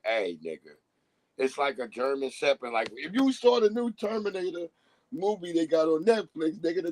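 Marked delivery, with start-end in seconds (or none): 0.0-0.8 put-on baby voice. Baby voiced warning adults.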